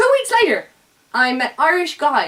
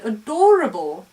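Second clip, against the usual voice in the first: Scottish intonation; 4 dB louder than usual. Retold or imitated. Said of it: "she said it".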